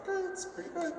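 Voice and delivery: squeaky high imitated reply; a sudden falsetto mock approval. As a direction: pitch it up like a fake-impressed voice. Mock reaction to finds.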